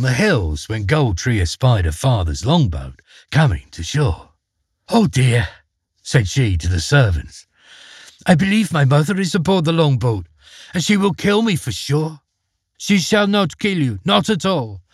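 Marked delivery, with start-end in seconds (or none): 4.9-12.2 quick, a touch higher, mildly frightened; a hint of a scared princess; mildly afraid girl. Daughter fears her mother. 12.8-14.8 higher, lightly voiced loyal servants; a hint of servants making a promise; vowing servants. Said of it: "vowed the loyal servants".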